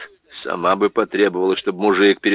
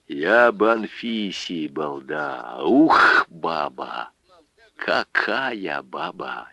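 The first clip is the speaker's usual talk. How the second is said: put-on slurred, drunken rambling. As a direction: talk like a tipsy old man. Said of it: "Пётр Житов пьяно икнул".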